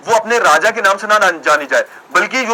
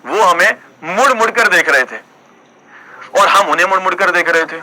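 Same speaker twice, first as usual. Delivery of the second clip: playful poetry-recital delivery; mock shayari recital. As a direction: recite a comic couplet, repeating each half for suspense. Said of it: "तो उसी पे एक शायरी याद आ गई मुझे".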